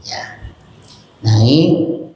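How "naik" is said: "Naik" drawn out, sliding upward; rising tone. Shown as a demonstration. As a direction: let "Naik" climb at the end. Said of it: "Yang pertama naik".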